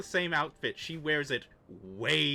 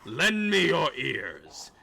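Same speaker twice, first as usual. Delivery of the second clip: zombie voice; 5 semitones lower, slower than usual. Acted. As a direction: proclaim like a zombie lord. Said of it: "drop the zombie voice now".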